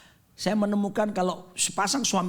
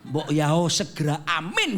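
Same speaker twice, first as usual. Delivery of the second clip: impatient Javanese plea; 3 semitones lower than usual. Retold or imitated. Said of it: "orang Surabaya bilang".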